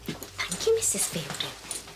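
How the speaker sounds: soft thanks dropping low at the name; mock gratitude. Assistant thanks Missus Fielding, mock grateful. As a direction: parody servile thanks under your voice.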